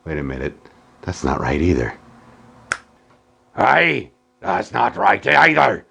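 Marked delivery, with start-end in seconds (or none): 3.6-5.9 gruff pirate shout; arr, talk like a pirate. Acted. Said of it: "Why am I talking like a pirate".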